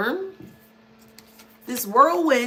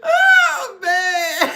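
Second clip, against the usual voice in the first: laughing outcry; 7 semitones higher, 6 dB louder than usual. Real, not acted. Bursting out laughing.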